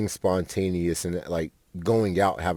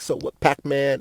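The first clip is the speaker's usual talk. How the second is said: higher-pitched imitation of a slight Spanish accent; 6 semitones higher than usual. Movie girl talking to Pac-Man, imitated slight Spanish accent. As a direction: lightly mimic a Mexican girl's Spanish accent. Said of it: "that slight Spanish accent".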